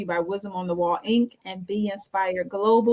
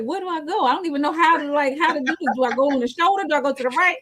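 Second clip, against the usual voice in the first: high-pitched bewildered questions; mock fluster; 6 semitones higher, faster than usual. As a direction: imitate a first-timer lost on where to pull over. Retold panic at being pulled over.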